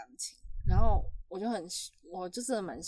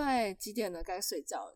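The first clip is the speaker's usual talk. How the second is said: nice and gentle; 3 semitones lower, 7 dB quieter than usual. Retold or imitated. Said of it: "我就好声好气哦".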